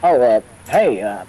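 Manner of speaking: a nervous little voice on the phone. Acted. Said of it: "a little voice come through the phone".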